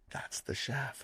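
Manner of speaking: whispered gossip. Retold or imitated. Girls whispering in the corner.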